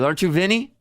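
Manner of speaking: imitating confused fan. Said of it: "she goes".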